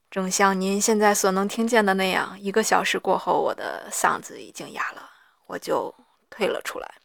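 hoarse from reading aloud for an hour. Real, not acted. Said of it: "正像您现在所能听见的那样，我的嗓子已经哑了".

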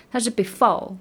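before said broad and swaggering; proud black before. Shown as a demonstration. Teacher models the proud before. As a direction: say before with a bold street flavor.

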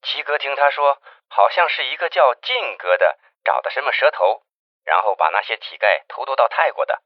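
quiet, hurried report over a phone line; hushed phone call. Acted. Investigator Jiang reports news to the chief by phone, hushed.

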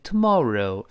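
British "tomorrow", last o as a clear eh-oo glide; British-style "tomorrow" ending in reh-oo; British pronunciation. Shown as a demonstration. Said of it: "这英式发音的不好读".

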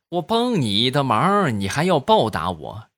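hammed-up offended fury; mock outrage. Dapao takes the offer of a reward as an insult. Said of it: "大炮一听就怒了".

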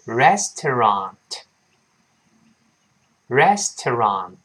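very slow "restaurant" in three clear syllables; drawn-out teaching model of "restaurant"; slow reading. Shown as a demonstration. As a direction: sound out "restaurant" as res-to-rant. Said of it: "先慢慢读".

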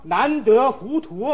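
quoting a maxim. Retold or imitated. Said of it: "郑板桥说什么".

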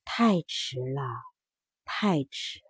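a sad bird saying it is too late, fading away; the mother turned cuckoo answering her children, softly and sadly; mournful cuckoo. Acted. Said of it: "一边飞一边叫".

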